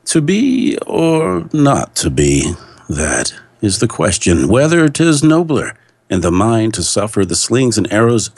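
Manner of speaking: overacted Star Trek captain declaiming Hamlet; Shatner-like reading. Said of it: "I sound a little too much like Star Trek dude".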